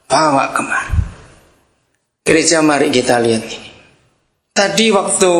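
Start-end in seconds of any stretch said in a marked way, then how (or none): 0.1-1.0 with authority. Acted. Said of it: "dengan wibawanya".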